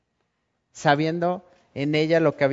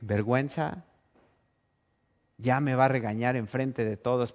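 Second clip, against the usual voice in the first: ashamed inner voice; 3 semitones lower, 5 dB quieter than usual. Acted. Woman's ashamed inner thoughts.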